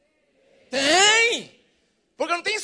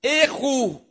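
slow, drawn-out robotic readout; mock computer voice announcing fatal error; error message voice; 3 semitones lower, much slower than usual. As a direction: read it like a computer error box. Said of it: "um quadradinho falando assim".

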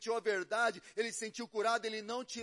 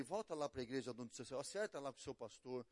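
gentle counsel; 3 semitones lower, 7 dB quieter than usual. Retold or imitated. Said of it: "eu falei pra ele".

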